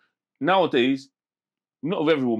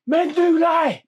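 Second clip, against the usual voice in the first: loud, high mocking shout; shouted retort; 6 dB louder, much slower than usual. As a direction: yell it across the street at him. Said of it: "Some woman shouted out".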